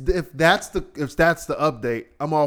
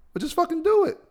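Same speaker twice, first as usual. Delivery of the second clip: exasperated yell; faster than usual. Real, not acted. Ranting at posters.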